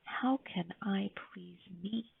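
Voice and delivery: slow, breathy inner whisper; a small voice inside her head, whispered slowly. A narrator's reading. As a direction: let it drift out slowly, barely voiced. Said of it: "she heard a whisper inside her head".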